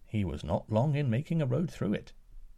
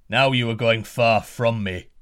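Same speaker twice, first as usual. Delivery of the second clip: louder giant roar; 6 dB louder than usual. Acted. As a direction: roar it out after the fleeing pair. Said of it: "the giant roared".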